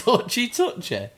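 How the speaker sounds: laughing disbelief. Real, not acted. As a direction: repeat it through a laugh, amazed. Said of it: "that actually sounds like it could be a ninja".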